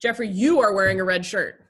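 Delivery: "Jeffrey, you are wearing a red shirt" said loud and pointed; aggressive accusation. Shown as a demonstration. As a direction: confront him with it. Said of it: "it sounds aggressive".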